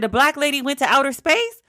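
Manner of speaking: playing her mom who can't believe it; incredulous mom. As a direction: daughter imitating her mother's amazed question. Mom's disbelief, retold to daughter.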